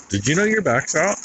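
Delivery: high, far voice for the wife; wife's voice. Retold or imitated. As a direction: lift into the wife's alarmed question. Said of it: "she goes".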